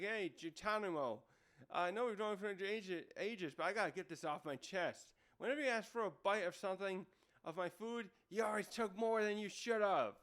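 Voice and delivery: mock griping at a friend; venting displeasure. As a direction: get a petty complaint off your chest, playfully. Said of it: "he's venting some, uh, displeasure".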